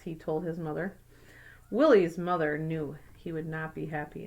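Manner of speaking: put-on clear, even read-aloud voice for kids; story narration. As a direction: read it like a picture book to a class. Reads picture book aloud.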